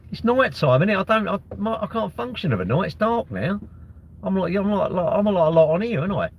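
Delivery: high-pitched whinging protest. Real, not acted. Streamer fending off work questions at night, whinging. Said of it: "Whinging about being asked questions now".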